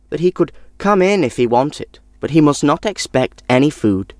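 plain reading voice

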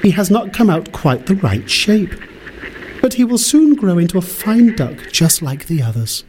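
high, motherly duck voice. A narrator's reading. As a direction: reassure like a doting mother duck. Mother duck defends duckling.

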